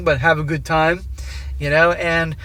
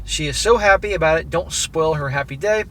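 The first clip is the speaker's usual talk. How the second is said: steady read-aloud voice for a written letter. A narrator's reading. Narrator reading the letter to his wife, measured and even.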